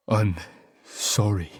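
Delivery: voice breaking. Acted. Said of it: "voice breaking".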